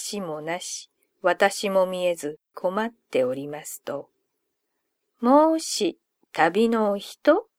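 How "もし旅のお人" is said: high, slow call across the river; child calling out. Acted. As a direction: call out gently from the boat. Fox child calls to traveler.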